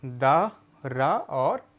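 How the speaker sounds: very slow spelling of each syllable; teacher spells out the letters for children, very slowly. Shown as a demonstration. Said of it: "छोटा आ".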